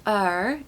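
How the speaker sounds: er with the R sounded, the wrong way; the R voiced out at the end. Shown as a demonstration. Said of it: "E R on the end of a word is actually a schwa sound".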